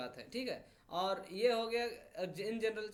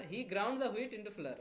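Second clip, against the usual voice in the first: slow, word by word; deliberate classroom read; slow dictation read; much slower than usual. Shown as a demonstration. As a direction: spell it out slowly for learners. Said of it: "मतलब उसने आटे को एकदम".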